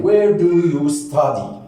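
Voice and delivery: slow, drawn-out question for learners; teacher's slow demonstration; slow modelling. Shown as a demonstration. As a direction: model each word slowly.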